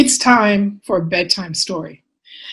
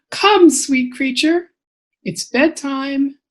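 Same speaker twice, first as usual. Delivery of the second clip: higher, singsong call to bed; coaxing parent; 5 semitones higher, slower than usual. Acted. Parent calling child to bedtime, lightly coaxing. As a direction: coax a little one to bedtime.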